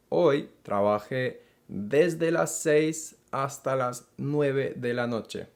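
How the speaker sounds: slow, deliberate Spanish with weight on desde; emphasized desde sentence. Shown as a demonstration. Teacher models the longer workday to learners, slow and stressed. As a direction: lean into the longer hours. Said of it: "Here I'm emphasizing the fact that".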